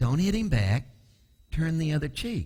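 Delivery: put-on whisper. Acting out a voice whispering in the ear after being hit: imitating Jesus whispering. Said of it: "He's whispering in my ear".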